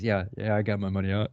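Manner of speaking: softly, like a secret phone call; lightly mocked sneaky whisper-talk; hushed aside. Banker secretly calling his buddies.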